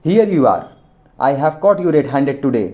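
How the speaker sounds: hint of old Englishman catching a thief; gloating slowly over the caught thief. A narrator's reading. Old Englishman catching the thief, a touch of gloating. Gora catches Chandar in garden.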